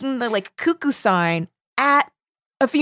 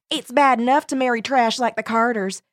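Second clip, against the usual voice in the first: put-on Southern accent; 4 semitones higher than usual. Junebug sneering at the Carters, Southern accent. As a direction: look down your nose, Southern style. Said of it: "That was an excellent accent".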